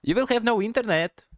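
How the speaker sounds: put-on a light Asian accent on the ISP caller's voice. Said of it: "why I made it sound like Asian".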